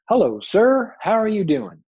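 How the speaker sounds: high, loud storybook hello; Brer Rabbit greeting. Acted. Cocky rabbit greets a doll on a bench, high and loud. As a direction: hail a stranger as a cocky rabbit.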